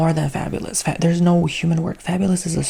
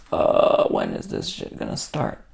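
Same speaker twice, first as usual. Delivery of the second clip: impatient moviegoer. Retold or imitated. Bored moviegoer voiced, impatient.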